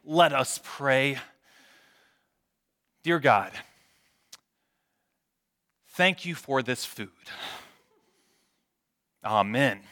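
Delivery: slow, hammed-up reverence with long pauses; mock reverent prayer. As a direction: play up a solemn table grace. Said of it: "in the most reverent voice I have".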